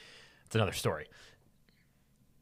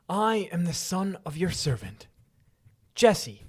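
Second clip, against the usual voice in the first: put-on young David's reply; 3 semitones higher, 4 dB louder than usual. Voicing David answering Saul.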